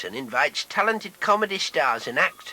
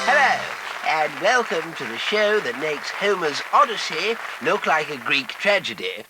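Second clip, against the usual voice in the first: upbeat host introduction; game show host. Acted. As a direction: welcome the audience like a TV host.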